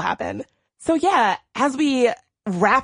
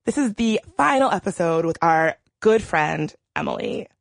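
voice catching with grief; 3 semitones lower than usual. Real, not acted. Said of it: "if I sound a little emotional".

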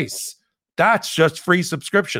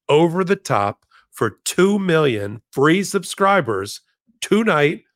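Jerry Lewis telethon; 3 semitones higher than usual. Shown as a demonstration. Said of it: "I sound like the Jerry Lewis telethon".

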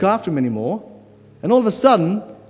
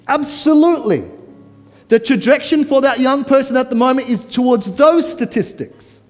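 higher, louder preacher's climax; fiery preaching; 8 semitones higher, 7 dB louder than usual. Real, not acted. Preacher paints the children's fate, full-force preaching. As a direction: drive the list home at full force.

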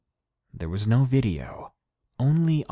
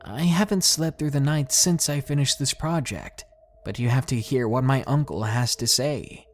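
higher, tearful plea through tears; crying; 6 semitones higher than usual. Acted. Girl pleading to her teacher, tearful and high. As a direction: push the words out while crying. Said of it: "then commenced crying".

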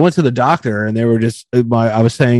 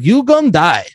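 higher-pitched mock doctor; doctor's warning; 5 semitones higher than usual. Doctor warning patient, mock-grave and higher. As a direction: imitate a doctor giving a blunt verdict. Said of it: "when a doctor's like".

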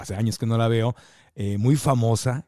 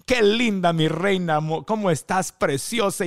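enthusiastic greeting; 5 semitones higher, slower than usual. Retold or imitated. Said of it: "a las maquillistas".

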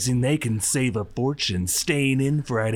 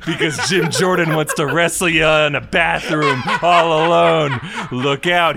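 louder, slowed, laughing through it; 3 semitones higher, 4 dB louder than usual. Acted. Pushing through the trailer parody.

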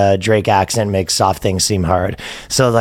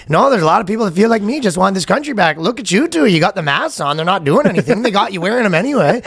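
higher mock Canadian accent; chirping Canadian; 8 semitones higher, faster than usual. Guy chirps officers about their masks, Canadian accent. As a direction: needle them in a put-on Canadian accent. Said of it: "That was good that he chirped".

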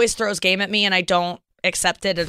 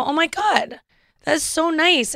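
higher-pitched, touched thank-you; gushing gratitude; 9 semitones higher, slower than usual. Retold or imitated. Flustered traveler thanking a kind security officer, gushing. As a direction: gush as if retelling your amazement.

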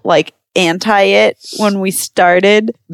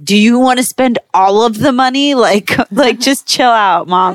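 mild exasperation, higher pitch; exasperated retort; 4 semitones higher than usual. Retold or imitated. Daughter pushes back at mom's worry, mildly exasperated. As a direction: push back at a fretting parent. Retort to fretting mom retold.

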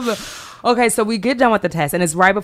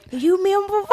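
high squeaky berry voice; tiny high cartoon fruit; Member Berries voice; 13 semitones higher than usual. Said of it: "member berries".

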